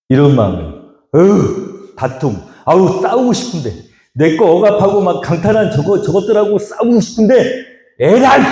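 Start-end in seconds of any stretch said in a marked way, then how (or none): 1.1-8.4 exasperated groan building to an outburst; frustrated grumble. Acted. Preacher voicing Isaac, fed up and exasperated. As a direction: huff like a man itching for a fight.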